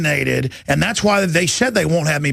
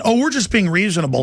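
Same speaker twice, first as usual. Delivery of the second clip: mocking sniveler; 3 semitones higher than usual. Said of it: "he was sniveling".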